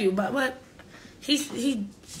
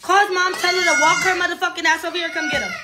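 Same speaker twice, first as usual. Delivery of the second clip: exasperated shout; 4 semitones higher than usual. Real, not acted. Yelling about nephew's behaviour.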